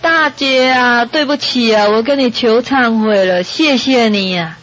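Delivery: slow, drawn-out mock plea to an elder wife; acted remorseful apology. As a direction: lightly act out begging forgiveness, stretching the words. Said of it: "跪着". (模仿跪地忏悔，拖长声音恳求)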